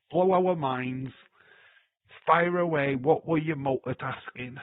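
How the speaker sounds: loud, slow, drawn-out challenge; egging on. Real, not acted. Streamer daring a chatter to confess, loud and drawn out. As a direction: dare them to tell all.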